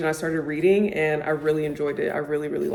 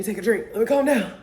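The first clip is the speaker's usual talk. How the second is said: much higher, laughing at her own excitement; giddy self-calming; 4 semitones higher than usual. Real, not acted. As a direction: playfully tell herself to settle down.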